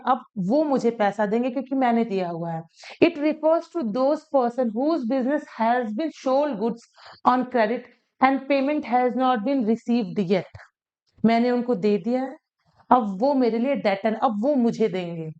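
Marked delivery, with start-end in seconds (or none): 3.0-10.4 slow, deliberate dictation pace. Shown as a demonstration. Teacher dictating the debtor definition slowly to students. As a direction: read the definition out slowly for notes. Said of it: "reading the English definition slowly".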